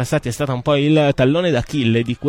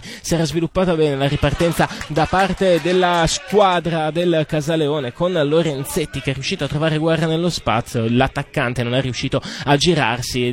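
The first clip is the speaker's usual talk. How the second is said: rising excitement on an attack; breathless italian goal commentary. Real, not acted. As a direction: lift the pitch as the chance builds. Attack during live commentary. (telecronaca concitata)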